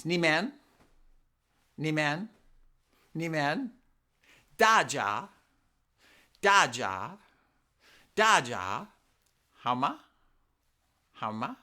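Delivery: 你们, 大家, 好吗 drilled piece by piece with pauses; Mandarin in pieces. Shown as a demonstration. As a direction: drill each piece slowly for repeating. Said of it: "Let's try little pieces".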